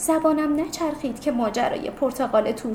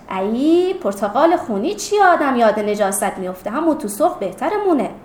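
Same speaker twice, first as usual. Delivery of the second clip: disgusted; 4 dB louder than usual. Acted. Grandmother objecting to the orange's name, disgusted. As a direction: recoil at a nasty name. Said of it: "بیبی چین انداخته بود به دماغش".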